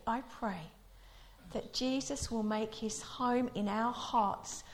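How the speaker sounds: slow, solemn prayer reading. Real, not acted. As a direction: pray it out slowly and deliberately. Reads prayer aloud.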